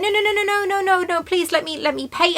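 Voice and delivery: high, pleading protest; a light, lifted voice for the boy begging to pay; imitating the boy. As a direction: play the polite foreign teenager refusing the gift. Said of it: "he was like".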